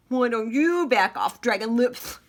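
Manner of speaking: a mild mock snarl thrown back; angry retort. The rival chameleon snaps back a name, mildly angry. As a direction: trade the insult right back. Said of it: "Willie and Wally were getting very angry".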